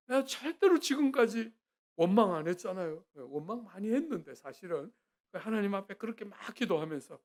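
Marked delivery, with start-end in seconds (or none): 0.1-3.0 indignant prayer. Retold or imitated. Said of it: "제가 하나님 앞에 기도했어요".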